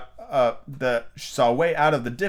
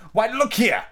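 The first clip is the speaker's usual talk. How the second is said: high, insistent queenly cry; 11 semitones higher, 4 dB louder, slower than usual. A narrator's reading. Red Queen making Alice see her point, crying out. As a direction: call out as an exasperated high-voiced queen. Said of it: "the Red Queen cried".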